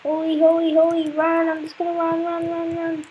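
anxious, running-away babble; panicky. Real, not acted. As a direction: chant it nervously while fleeing. Flees something scary in game.

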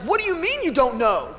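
hammed-up hurt pride; mock indignant. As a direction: protest in disbelief, playing it up. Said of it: "I had this other reaction".

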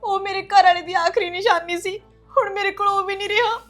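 tearful. Acted. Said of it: "ਰੋਈ ਜਾਂਦੀ ਹਾਂ".

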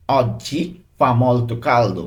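very slow, word-by-word teaching delivery; careful language-lesson pronunciation, unhurried; slow model reading. Shown as a demonstration. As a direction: draw it out for learners. Teacher models Italian sentence.

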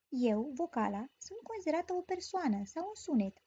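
ordinary talk

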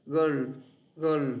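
put-on "Girl" with a clear L at the end; final L clear. Shown as a demonstration. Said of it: "Các bạn có chữ L này này".

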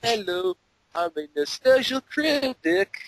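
high, slow hammed-up host voice; critic intro. Mocking the Nostalgia Critic's intro, hammed up. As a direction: ham it up like a cheesy show host. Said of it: "acts the critic".

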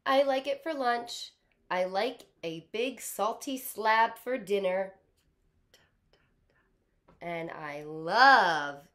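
excited crocodile gushing over his favorite food; crocodile loving watermelon. Acted. Teacher voicing the crocodile to kindergartners, excited and gushing. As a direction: gush about watermelon like a greedy croc.

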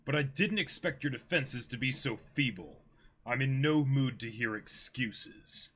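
icy pirate captain, contemptuous; reading the manga aloud, cold pirate captain; villain captain Kuro. Acted. Reads Kuro's lines.

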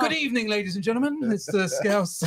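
a hint of an Australian accent, pitched a touch up; playful mock Australian compère; mock Australian presenter. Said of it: "I don't know why I've gone Australian".

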